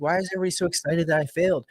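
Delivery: high, quick imitation of bewilderment; baffled question. Movie character asking the cheering family, high baffled voice. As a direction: ask it fast and high, puzzled.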